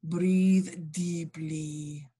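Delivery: drawn-out calm command, very slow; slow soothing. Acted. Katinka hypnotising Derek in the pod, slow and soothing. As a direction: lull him under slowly.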